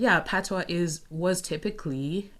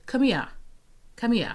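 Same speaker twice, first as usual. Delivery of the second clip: high, loud British "Come here, come here"; British accent; 7 semitones higher, 3 dB louder than usual. Shown as a demonstration. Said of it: "which would be, like, sorry for the British accent".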